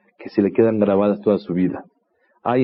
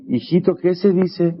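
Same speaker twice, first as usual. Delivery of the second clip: put-on slower, higher prompt to the child; father nudging his son, a bit higher and slower; insistent prompt; 6 semitones higher than usual. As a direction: coax the boy in front of guests. Father prompts again, more insistent.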